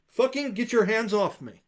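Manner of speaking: high, loud snarl at a grabbing hand; furious shout. Acted. Sister screams at her brother to let go, furious. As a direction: throw him off with a shout.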